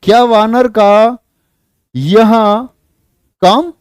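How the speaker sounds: high, slow mocking question; Radha teasing. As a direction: tease him as Radha.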